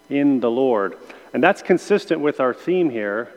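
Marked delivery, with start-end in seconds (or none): 0.1-1.0 "in" given the weight; stress on IN. Shown as a demonstration. Teacher highlighting today's focus word, stressing "in". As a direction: lean on the word "in". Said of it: "emphasizing the preposition in".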